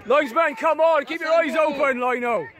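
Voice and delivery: berating the linesman. Real, not acted.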